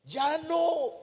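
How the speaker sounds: high-pitched drawn cry of refusal; acted cry from the burning cup; screaming in protest. The clay cup begging to leave the oven, acted scream. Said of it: "yo gritaba".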